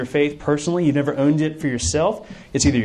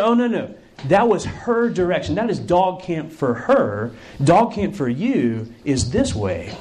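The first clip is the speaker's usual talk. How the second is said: patient correction; 2 semitones higher, slower than usual. Acted. Group leader corrects confused camper.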